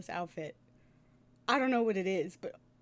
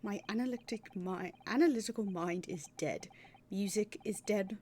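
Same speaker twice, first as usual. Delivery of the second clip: despairing detective. Acted. Voicing despairing Sholmes.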